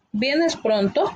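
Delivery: slow question with a rising end; gentle questioning tone, drawn out; slow questioning tune. Shown as a demonstration. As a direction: ask it slowly, letting the question rise. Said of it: "Entonamos esos signos de interrogación".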